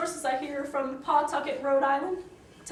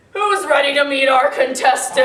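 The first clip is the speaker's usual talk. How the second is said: loud, rising crowd-warm-up call; hyped host call; 9 dB louder than usual. Acted. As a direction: pump up the studio audience. Game show host hyping crowd.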